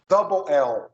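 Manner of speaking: "double L" said as dabo el; teacher models "double L" in English. Shown as a demonstration. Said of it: "L duplo".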